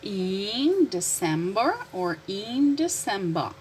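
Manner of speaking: slow contrast, December with R, then December without; first December ends in r, second in "ba"; American then British pronunciation. Shown as a demonstration. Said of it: "difference between American and British pronunciation".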